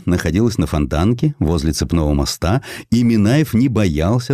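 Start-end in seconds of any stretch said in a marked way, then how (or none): none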